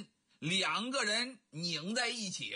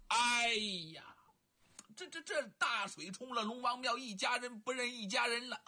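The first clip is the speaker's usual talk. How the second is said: half-sobbing over the family mix-up; choked up; 2 semitones higher than usual. Acted. 徐良认亲，哽咽感慨. (哽咽着说)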